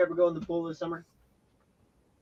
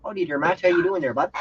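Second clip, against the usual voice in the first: hammed-up Canadian hello; Canadian accent; 3 semitones higher, 6 dB louder than usual. Greeting Matt as he joins, in a mock Canadian accent. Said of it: "in a Canadian accent".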